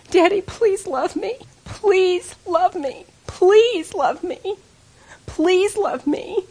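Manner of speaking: high, very slow, drawn-out begging; yearning plea. Retold or imitated. Daughter to her lost daddy, slow yearning plea. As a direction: plead like an aching child, stretching each please. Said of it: "there was this yearning inside of me".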